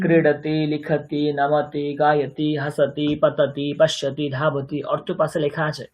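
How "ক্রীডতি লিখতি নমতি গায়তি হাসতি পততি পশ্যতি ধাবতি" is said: even, monotone drill rhythm; verb-list recitation. Shown as a demonstration. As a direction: recite each form on one steady pitch.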